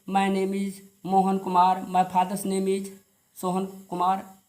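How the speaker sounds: rural Indian English, word by word; mock the wrong style; wrong village English. Shown as a demonstration. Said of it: "तो ये गलत style है". (गलत देहाती English style)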